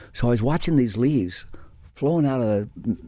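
ordinary talk, nothing marked

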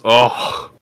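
high, loud, sneering brute voice; high mocking brute. Horned red brute jeering at the new recruits, high and loud. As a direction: jeer up high at the newcomers.

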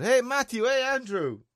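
put-on high, loud call to the kids; hollering for the neighbour's kids; shouting. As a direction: call out down the street to them. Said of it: "So I shouted".

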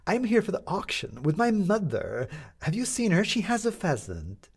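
a scatterbrained lady rambling about pheasants; lightly voiced chatty lady. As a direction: prattle on brightly without a pause. Miss Saltadora chatters at Maddie.

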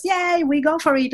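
mock cheer. Mimics eager entrepreneurs.

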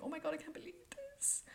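high, breathy whisper of disbelief; awed whisper. Retold or imitated. Watching rays in the dark, awed whisper. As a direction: whisper it in wonder. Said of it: "I didn't scream".

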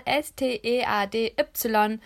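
langsam Buchstabe für Buchstabe „S T E A D Y“; „S T E A D Y“ deutlich einzeln buchstabieren; buchstabiert. Shown as a demonstration. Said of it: "Ich buchstabiere einmal". (jeden Buchstaben von „S T E A D Y“ langsam einzeln sprechen)

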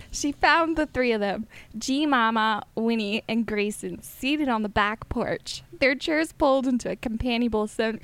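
lightly put-on southern accent. Shown as a demonstration. Reading friend her novel as heard in her head, mild southern accent. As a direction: read it with a hint of a southern lilt. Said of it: "in a southern accent".

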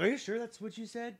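high, disbelieving double-check; incredulous. Retold or imitated. Danny questioning his brother's lyric, mock incredulous. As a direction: ask it like you can't believe the words. Doubting Lance's lyric, retold.

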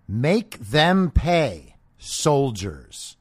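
mocking quote. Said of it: "she sounds very loving".

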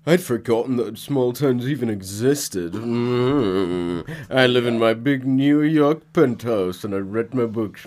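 lightly mocking snob voice, slow; Alan, mocked as snob. Mocking Alan bragging about his penthouse, lightly put-on slow snobbery. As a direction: draw it out with mock self-importance. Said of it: "Alan's kind of an asshole. Like".

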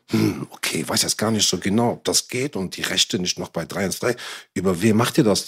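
mock-hesitant, slightly subdued imitation; imitated noncommittal "hm, okay"; feigned cluelessness. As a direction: play someone who supposedly has no idea. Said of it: "tut so, als ob der keine Ahnung hätte".

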